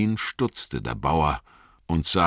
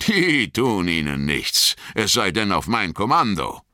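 higher, lightly voiced farmer recognising an old friend; a farmer breaking into a grin; pleased farmer; 4 semitones higher than usual. Farmer reassures about dogs.

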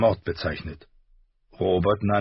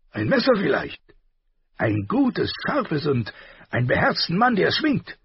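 gruff king; 10 semitones higher than usual. A narrator's reading. Robert voiced in audiobook.

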